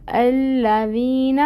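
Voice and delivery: slow Quranic drill word; slow tajweed recitation. Shown as a demonstration. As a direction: stretch الذین out slowly, gentle dh. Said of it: "یہاں پر زیر آئے گی".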